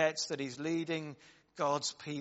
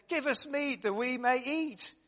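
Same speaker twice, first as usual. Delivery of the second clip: raised pleading demand; 9 semitones higher, 5 dB louder than usual. Acted. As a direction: voice rises high and loud as Moses voices the crowd. Moses mimics the people.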